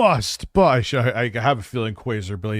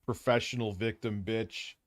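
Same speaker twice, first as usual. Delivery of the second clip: swearing tirade; 2 semitones lower, slower than usual. Real, not acted. Cursing at rival on show.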